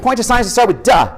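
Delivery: high, cheerful mom voice; a mother setting her son a game; imitating his mom. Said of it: "She's like".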